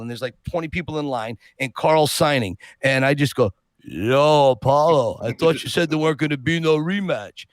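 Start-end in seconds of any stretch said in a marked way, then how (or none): 3.8-7.5 a hint of the film boxer, calling his rival out; Rocky. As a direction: call out the greeting like the boxer, then ease off. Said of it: "just as Rocky".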